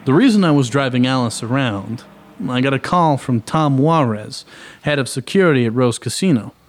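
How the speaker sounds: dry private eye narration; story narration. A narrator's reading.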